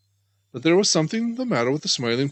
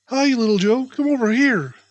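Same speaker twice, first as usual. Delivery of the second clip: high, louder call across the pool; shouted call; 8 semitones higher, 4 dB louder than usual. A narrator's reading. Jerry calling Little Joe over, shouting. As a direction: call out to him across the water. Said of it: "shouted Jerry".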